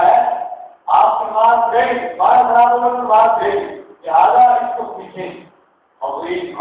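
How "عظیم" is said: عظیم said softly with a clear ظ sound; careful pronunciation. Shown as a demonstration. Teacher to students, models عظیم for practice, soft and careful. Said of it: "عظیم کی practice کریں".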